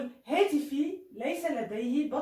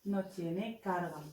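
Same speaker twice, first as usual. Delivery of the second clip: very slow, fading softer on the repeat; slow dictation; 3 semitones lower, 3 dB quieter, much slower than usual. Shown as a demonstration. Teacher modelling the phrase for learners, slow. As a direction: drag each word out for beginners. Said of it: "نفس الشيء في الإسبانية".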